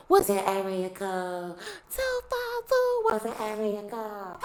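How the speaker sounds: slow, drawn-out club pickup voice; club guy asking. Retold or imitated. Imitating a guy in the club asking area codes. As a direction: mimic a guy working the club. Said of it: "they be like".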